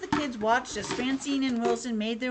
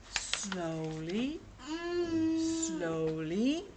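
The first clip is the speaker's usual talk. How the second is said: creeping suspense; 6 dB quieter, much slower than usual. Acted. Reader to child, peeking round the corner, suspenseful.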